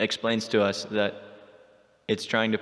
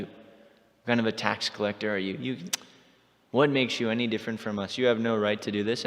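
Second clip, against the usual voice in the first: indignant friend scolding Krishna; retold scolding; 3 dB louder than usual. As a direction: give the rascal a proper telling-off. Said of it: "She begins to chastise Krishna".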